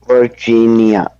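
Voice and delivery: Virginia carefully split into syllables. Shown as a demonstration. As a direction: practise Virginia in three careful beats. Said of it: "Break it out and then say three".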